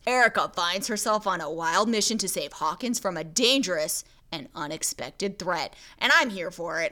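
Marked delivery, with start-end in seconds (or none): 0.1-5.7 movie trailer voice. Shown as a demonstration. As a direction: read it like a film trailer. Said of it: "That's my movie voice".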